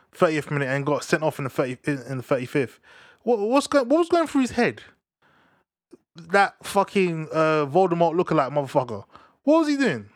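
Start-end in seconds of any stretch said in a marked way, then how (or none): 3.2-10.1 incredulous outrage. Real, not acted. Outrage at the sending off.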